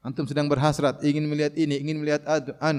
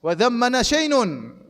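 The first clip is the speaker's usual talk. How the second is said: boastful; 4 semitones higher, slower than usual. Retold or imitated. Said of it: "Maka dia mengatakan".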